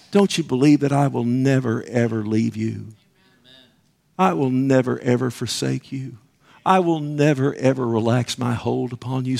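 soft, reassuring promise; a gentle hint of God's voice comforting; tender reassurance. Preacher voices God's assurance.

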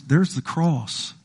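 very slow, weighty presentation; solemn as God. Retold or imitated. God pointing sinners to the cross, slow solemn voice. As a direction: lay each word down slowly. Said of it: "God says".

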